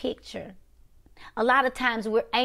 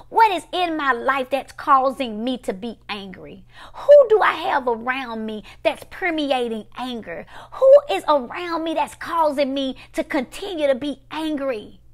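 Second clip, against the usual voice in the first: loud, higher-pitched probing questions; emphatic self-questioning; 3 semitones higher, 6 dB louder than usual. Acted. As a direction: hit each question hard at the start. Acting out her self-questioning.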